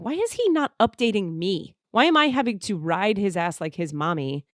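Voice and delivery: mildly exasperated, pitch lifting; retold fuming at his silence; exasperated inner rant. Fuming to herself about him not updating her, exasperated. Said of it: "starting to get pissed about that".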